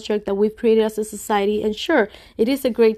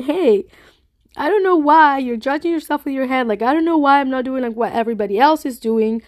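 higher, louder inner-self voice; 3 semitones higher, 3 dB louder than usual. Acted. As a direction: voice the inner self, raised and brighter. Voicing her in-tune inner self.

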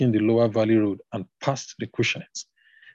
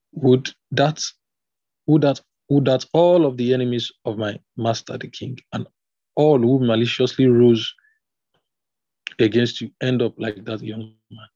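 halting read with false starts and pauses; emphatic but broken-up reading; 4 dB louder than usual. Real, not acted. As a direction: stumble into it, breaking between phrases. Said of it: "Okay, I'll read that again".

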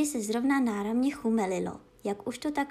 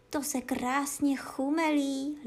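dog relishing; 3 semitones higher, slower than usual. Acted. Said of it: "liboval si pejsek".

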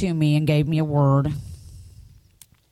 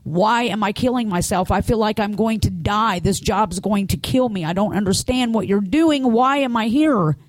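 higher-pitched pleading, climbing to the last question; retold anguished questions, one after another; retold broken bawling; 4 semitones higher than usual. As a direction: re-enact calling out to God in despair, without actual sobs. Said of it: "bawling, broken, saying".

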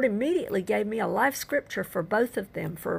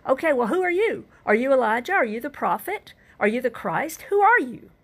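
questioners' challenge; 3 semitones higher than usual. Retold or imitated. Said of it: "whenever he's asked".

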